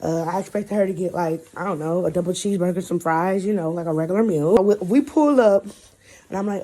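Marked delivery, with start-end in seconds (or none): none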